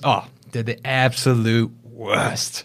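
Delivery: slow, drawn-out imitated South African accent. Agent voicing the manager's complaint, slow South African accent. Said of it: "I gotta do the accent for this part".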